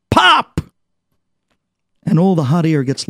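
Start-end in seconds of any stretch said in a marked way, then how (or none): 0.1-0.6 much higher, sudden louder pop; burst. Acted. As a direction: let the balloon burst on pop. Balloon bursting image.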